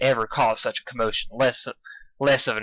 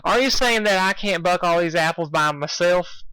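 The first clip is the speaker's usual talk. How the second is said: suspicious; 6 semitones higher than usual. Acted. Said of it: "she asked suspiciously".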